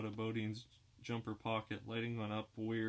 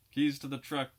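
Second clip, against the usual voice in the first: Cagney sneer; 4 semitones higher, 9 dB louder than usual. Acted. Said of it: "with a Cagney sneer".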